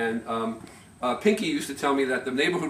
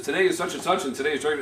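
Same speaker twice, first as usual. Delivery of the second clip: lightly imitated radio announcer, a bit higher; formal announcer; 3 semitones higher, faster than usual. Speaker mimicking his family's old record announcements, formal. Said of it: "very formal at first, the way they're announced".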